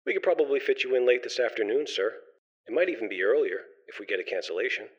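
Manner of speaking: high, soft, welcoming hostess voice; gracious society hostess. Acted. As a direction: reassure him like a polite receptionist. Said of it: "the very warm voice of a hostess".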